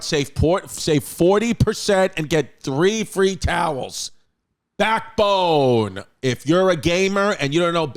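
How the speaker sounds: punchy pitchman delivery with stretched brand names; hard-sell the product straight at the listener; emphatic podcast sponsor read. Acted. Reads a sponsor ad.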